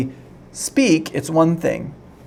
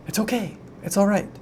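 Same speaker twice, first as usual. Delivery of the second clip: soft, higher-pitched comforting; retold reassurance; 5 semitones higher, 5 dB quieter than usual. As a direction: gently soothe an upset student, as if retelling it. Teacher comforts crying student, retold.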